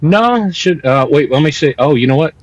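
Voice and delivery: thin, tinny headphone-mic sound; talking into headphones instead of a mic; headphones used as mic. Real, not acted. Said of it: "I'm using my headphones as a mic".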